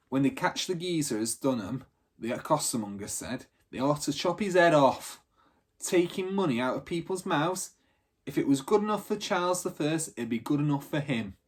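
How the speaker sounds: a hint of an indignant cockney trader; costermonger ranting. Costermonger rants about forger.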